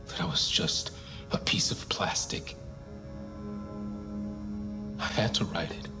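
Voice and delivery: barely voiced, close to a whisper; half-whispered confession. Suspect confessing to the interrogator, half-whispered.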